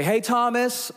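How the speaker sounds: high-pitched imitated holler; calling out. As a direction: imitate a neighbour calling from a distance. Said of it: "from across the parking lot".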